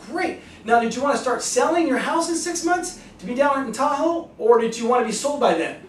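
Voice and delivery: high, eager sales voice; upbeat pitch. Shown as a demonstration. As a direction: keep the enthusiasm rolling. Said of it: "like I've just demonstrated with you right".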